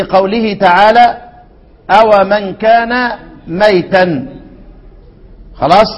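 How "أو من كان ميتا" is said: drawn-out Quranic recitation; measured verse recitation; slow recitation. Shown as a demonstration. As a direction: recite it slowly, tajweed style.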